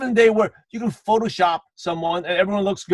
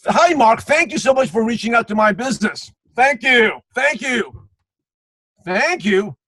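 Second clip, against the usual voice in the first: mock over-eager thank-you, pitched up; gushing thanks; 3 semitones higher than usual. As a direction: gush thanks like an overkeen seller. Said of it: "Thank you for coming in today".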